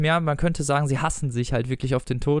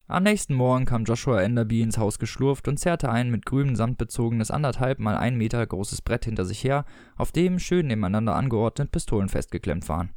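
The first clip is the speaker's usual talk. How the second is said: measured audiobook narrator; story narration. A narrator's reading. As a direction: read it out as literary narration. Reads a story aloud. (Erzählstimme einer Lesung)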